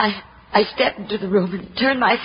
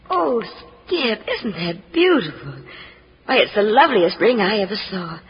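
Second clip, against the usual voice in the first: tearful delight; 3 semitones lower than usual. Acted. Sees the engagement ring.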